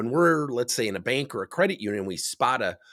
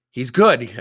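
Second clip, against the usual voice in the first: retold loud vouching; 11 dB louder than usual. Friend vouching loudly in retold exchange.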